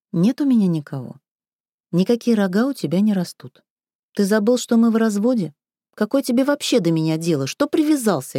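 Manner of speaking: snapping back, rising; sharp retort. Acted. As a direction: cut him off sharply. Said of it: "резко бросила Таня".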